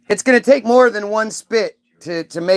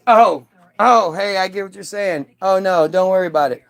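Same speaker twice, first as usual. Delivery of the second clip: arrogant Jesus. Retold or imitated. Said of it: "arrogant ass Jesus goes".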